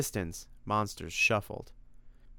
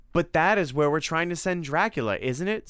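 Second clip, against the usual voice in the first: high, loud eager question; excited; 8 semitones higher, 5 dB louder than usual. A narrator's reading. Tim asks about sending Dracula away, excitedly. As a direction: jump in with keen excitement. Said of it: "said Tim excitedly".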